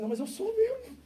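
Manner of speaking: high, laughing through the words; laughing admission. Retold or imitated. Pastor answering the apologizing brother, laughing. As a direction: laugh it off good-naturedly. Laughing reply to church member.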